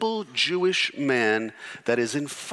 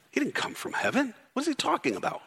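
voicing the doubters; 7 semitones higher, 6 dB quieter, faster than usual. Preacher voicing the doubting Jews.

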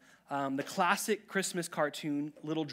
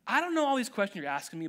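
mock frustrated; 4 semitones higher, 4 dB louder, faster than usual. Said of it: "gets, like, frustrated".

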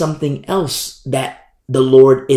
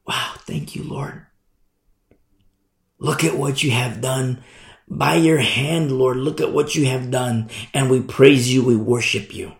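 reverent praise; 4 dB quieter than usual. Pretend. Imagined praise to the Lord.

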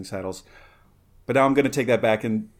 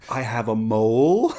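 quoting a surprised question; 6 dB louder than usual. Retold or imitated. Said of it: "And then he says".

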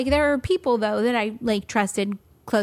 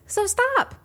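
mock deadpan advice. Quoting Katie's advice.

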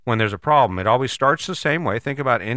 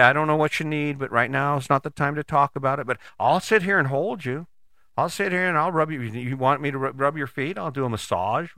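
gently offered comfort, softening toward the end; retold reassurance; 3 semitones higher than usual. Husband offers to hold upset wife, mildly reassuring. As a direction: ease into a mild soothing offer. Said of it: "And I would reassure her".

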